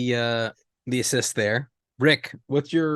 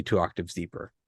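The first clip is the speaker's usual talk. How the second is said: deep gas voice; 7 semitones lower, 8 dB quieter than usual. Shown as a demonstration. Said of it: "everyone's voice was two octaves deeper".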